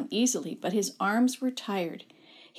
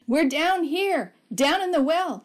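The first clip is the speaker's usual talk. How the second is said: calling out; 7 semitones higher, 6 dB louder than usual. A narrator's reading. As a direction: call up from the bottom of the well. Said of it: "he called".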